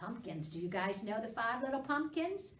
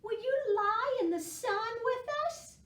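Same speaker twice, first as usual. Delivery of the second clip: higher, louder cat asking; cat inviting Squirrel to the sun; 14 semitones higher, 6 dB louder than usual. A narrator's reading. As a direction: purr out an invitation. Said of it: "said Cat".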